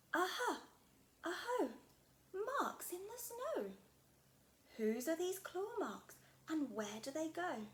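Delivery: a small explorer shouting her discovery; excited Gruffalo child. Acted. Child finds claw marks.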